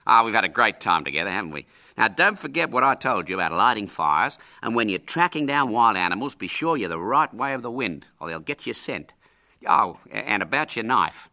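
lightly voiced hearty uncle; a hint of jolly, chatty uncle. Uncle saying goodbye to William, lightly hearty.

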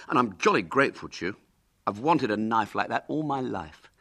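lightly voiced hearty boy; a touch of eager gratitude. William thanking his uncle for the knife, mildly hearty. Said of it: "agreed William heartily".

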